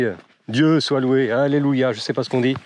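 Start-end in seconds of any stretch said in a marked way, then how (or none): 0.5-1.9 hammed-up thanks to heaven; mock praise. Hiker relieved at finding the sponge rock, mock hallelujah.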